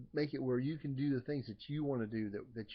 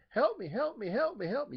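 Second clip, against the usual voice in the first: much higher and louder desperate cry, over and over; screaming for help; 10 semitones higher, 5 dB louder than usual. Retold or imitated. Blind person begging a healer for attention, screaming. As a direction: shout it like your sight depends on it. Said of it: "you'd be screaming".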